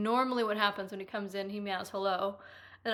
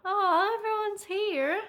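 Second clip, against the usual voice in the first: delighted surprise; 10 semitones higher, 6 dB louder, slower than usual. Real, not acted. Streamer spotting the chat filling up, delighted. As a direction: pitch jumps up, bright and loud.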